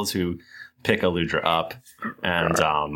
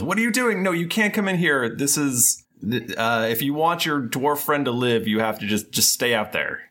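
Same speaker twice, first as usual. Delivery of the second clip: high-pitched cleric voice; lightly voiced frantic cleric; 7 semitones higher than usual. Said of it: "That's your devil voice?".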